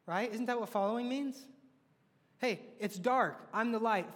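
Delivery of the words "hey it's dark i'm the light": slow, louder call to follow through the dark; a leader rallying a group, slow and louder; encouraging call. Pretend. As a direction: call them on like a guide with a lantern. Acting Jesus calling people on.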